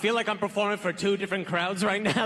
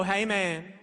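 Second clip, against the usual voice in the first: smug dude; much slower than usual. Retold or imitated. Dude's smug silent gesture voiced.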